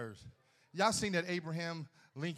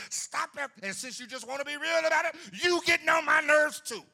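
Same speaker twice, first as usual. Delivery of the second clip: suddenly shouting, pitched way up; loud outburst; 11 semitones higher, 12 dB louder than usual. Acted. Preacher shouting at the congregation, exasperated loud. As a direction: explode at the crowd, high and loud.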